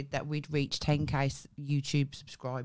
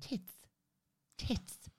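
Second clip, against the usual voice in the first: softly imitated posh "tits"; posh accent; 5 semitones higher, 8 dB quieter than usual. Repeating the doctor's word for a friend, posh accent. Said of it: "use of tits in that accent".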